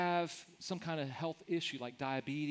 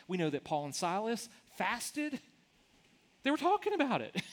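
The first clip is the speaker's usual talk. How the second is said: higher, louder preaching as he builds point by point; impassioned preaching; 6 semitones higher, 3 dB louder than usual. Acted. Pastor rallying the congregation, impassioned preaching. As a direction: drive the list home with rising fervor.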